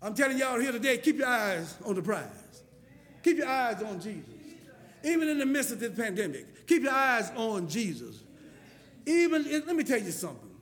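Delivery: firm pulpit exhortation; emphatic preaching. Acted. Preacher urging congregation through pandemic, firm exhortation. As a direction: drive each phrase home to the crowd.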